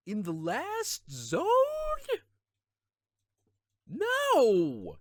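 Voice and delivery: high, loud, slow "No!" shout; outraged yell. Real, not acted. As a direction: yell at the absurd choice. Yelling about wrong strategy.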